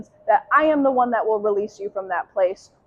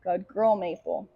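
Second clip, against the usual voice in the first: soft praise; 5 semitones lower, 8 dB quieter than usual. Real, not acted. Soft praise after the mark.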